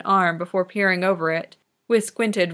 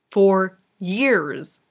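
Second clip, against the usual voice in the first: a mild hiss of disbelief. Acted. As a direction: press the words out through the teeth, lightly. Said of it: "Kageyama hissed".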